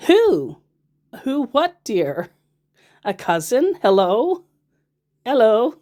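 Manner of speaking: hammed-up pestering hello; mock impatient. Scammer's impatient messages, mocked.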